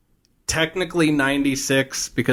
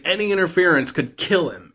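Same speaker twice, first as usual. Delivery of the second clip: acted urgent warning; 6 semitones higher than usual. Al warns Gushy urgently.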